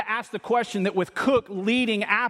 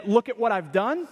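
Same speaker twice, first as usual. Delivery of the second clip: boasting; 3 semitones higher than usual. Retold or imitated. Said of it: "the writer boasting in".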